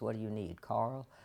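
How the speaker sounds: put-on mimicked American accent. Speaker recounts how a man phoned when he arrived in Atlanta, imitating his American accent. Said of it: "he talked like this".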